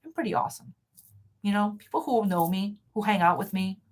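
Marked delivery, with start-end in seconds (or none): 0.0-0.7 higher and softer, lightly playful; a pleased little mirror boast; mirror affirmation. Retold or imitated. Talking to yourself in the mirror, higher and soft. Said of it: "look in the mirror and go".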